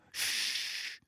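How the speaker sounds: urgent whispered shh; hissed shh. A narrator's reading. Hermione hushing Ron in the Great Hall, whispered shh. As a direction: silence him fast under your breath. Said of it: "said Hermione".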